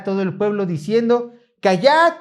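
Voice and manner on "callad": commanding hush. Acted. Levites silencing people in reading.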